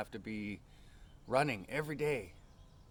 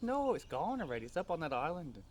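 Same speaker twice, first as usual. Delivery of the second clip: put-on child explaining; 6 semitones higher than usual. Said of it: "He says".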